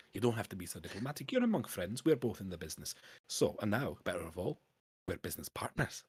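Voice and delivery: lightly voiced Scots accent drifting Irish; Scottish slipping into Irish. Dwarf tells the adventurer they're business partners, Scottish accent slipping into Irish. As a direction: aim for Scottish, land a bit Irish. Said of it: "I've gone Irish now".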